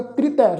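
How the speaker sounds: ਕ੍ਰਿਤੈ as joined "kri-tai"; pronunciation demo. Shown as a demonstration. Teacher models the word, ਕ੍ਰਿਤੈ as "kri-tai". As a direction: run k and r together in ਕ੍ਰਿਤੈ. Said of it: "ਇਸ ਦਾ ਪਾਠ ਉਚਾਰਨ ਕਰਾਂਗੇ".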